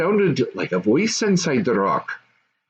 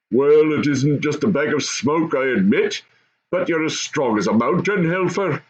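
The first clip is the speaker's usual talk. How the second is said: lightly voiced goblin father; 4 semitones higher than usual.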